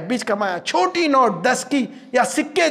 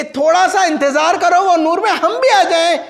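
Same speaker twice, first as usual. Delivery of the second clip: quick, raised plea to wait; acted calling out; 5 semitones higher than usual. Hypocrites calling to believers for a little wait, acted call. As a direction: call after them, pitched up. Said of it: "جب پکاریں گے".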